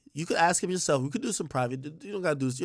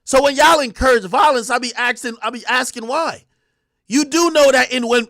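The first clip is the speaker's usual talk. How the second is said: heated rant; 4 semitones higher, 3 dB louder than usual. Real, not acted.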